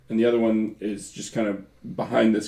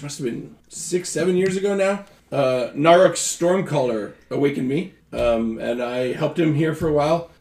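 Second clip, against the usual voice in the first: weasel voice; 2 semitones higher, 5 dB louder than usual. Acted. GM voices Gerhardt telling backstory.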